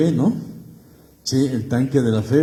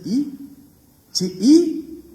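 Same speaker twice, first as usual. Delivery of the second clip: mock defiant retort; 13 semitones higher, 5 dB louder, much slower than usual. Peter's defiant retort voiced.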